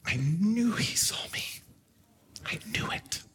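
whispered to himself; under his breath. Retold or imitated. Son whispering to himself after Goofy's gift. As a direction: barely breathe the words, amazed. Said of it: "almost under his breath".

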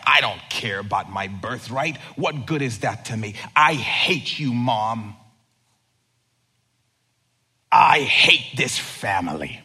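mild mock teen rant; reckless outburst. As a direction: fling the words out carelessly. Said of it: "he just spoke recklessly".

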